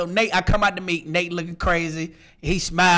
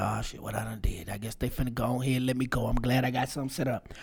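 soft, low muttered thought; quiet worried aside; worried inner voice; 8 semitones lower, 12 dB quieter than usual. Retold or imitated. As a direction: think it nervously to yourself. Retold anxious inner thought.

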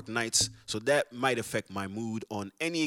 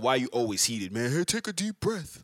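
mock calming listener. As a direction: parody the listener telling him to calm down. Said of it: "He said something about".

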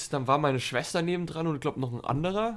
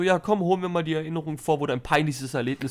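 teasing; 3 dB louder than usual. Acted. Voicing the brain teasingly.

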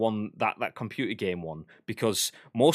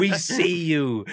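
slow, ominous game voice; slow mock ominous warning; 6 semitones higher, 5 dB louder, much slower than usual. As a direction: warn cheaters, drawn out.

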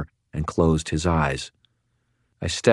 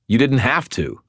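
a tense, louder growl; 7 semitones higher, 4 dB louder than usual. A narrator's reading. Harry to his brother, a tense growl. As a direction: growl it back, pitched higher. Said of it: "I growled".

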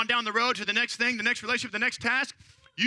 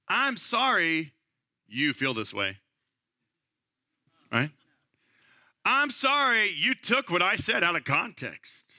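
fake apology; slower than usual. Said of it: "what you're really trying to say is".

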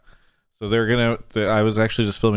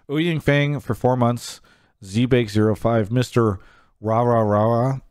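hoarse, slow voice that is giving out; raspy whisper; 3 semitones higher, slower than usual. Real, not acted. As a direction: read the names through a worn-out voice. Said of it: "Sorry, I'm losing my voice here".

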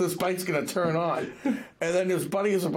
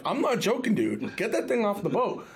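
insistent order, pitched up at the start; a touch of exasperated warning; mild mock anger; 6 semitones higher than usual. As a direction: act out a firm telling-off. Acted quarrel over banana.

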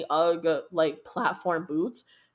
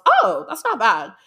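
pleasantly surprised; 8 semitones higher, 7 dB louder than usual. Real, not acted. Reacting to the currency conversion.

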